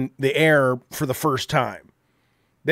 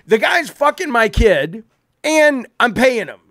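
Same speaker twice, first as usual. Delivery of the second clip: angry rant; 4 semitones higher than usual. Real, not acted. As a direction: vent the frustration at full steam. Ranting angrily at absent cohost.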